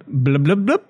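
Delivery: blowing bubbles into the buzzer; burbling blub like bubbling underwater; mouth at waterline. Pretend. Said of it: "thank you for blubbing in".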